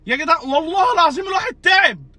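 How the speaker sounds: real worn-out fan shouting his complaint; exasperated shout. Real, not acted. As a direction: shout it, fed up with the team. Exhausted fan venting. (صرخة مشجع تعبان)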